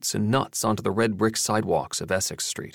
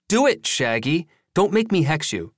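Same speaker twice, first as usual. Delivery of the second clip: teasing voice; 8 semitones higher than usual. Acted. The speaker teasing threat to Jason.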